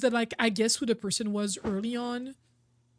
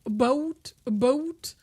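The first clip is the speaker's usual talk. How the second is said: mock Canadian accent; slower than usual. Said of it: "Is that what Canadians sound like to others?".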